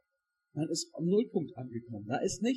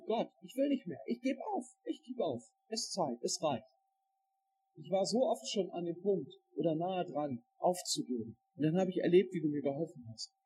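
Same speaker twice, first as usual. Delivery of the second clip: despairing prayer; 4 dB quieter than usual. Acted. Voices Elia's despairing prayer.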